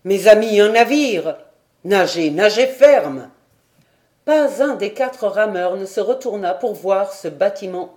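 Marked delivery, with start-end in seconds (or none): 0.0-3.3 loud urging to the rowers; loud excited rallying cry; shouting. A narrator's reading. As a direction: shout them on to row harder. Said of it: "s'écria-t-il".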